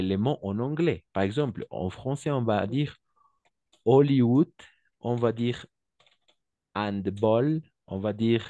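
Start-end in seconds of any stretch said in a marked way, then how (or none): 3.8-4.5 Hollywood said "olliwood", no H; silent H. Shown as a demonstration. Teacher shows French Hollywood to class, silent H. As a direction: drop the H of Hollywood, stressed. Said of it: "Le H est muet".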